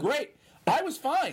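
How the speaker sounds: high, loud comic insistence; emphatic exclamation. Real, not acted. Guest insisting the blackout suited him, loud exclamation.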